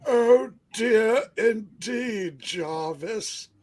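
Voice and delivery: measured, portentous storytelling; grand comic narration. Acted. Telling of heroes come to Rutland, grandly theatrical. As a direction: declaim it in halting, weighty phrases.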